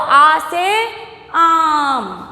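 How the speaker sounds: slow, stretched आ से आम; pupils' recitation way. Shown as a demonstration. Teacher showing what pupils usually say, drawn-out recitation. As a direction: chant आ से आम with long vowels. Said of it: "आप बोलते हो".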